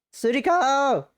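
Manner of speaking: loud, high shout of the writer's name; mock angry yell. Yelling at the writer.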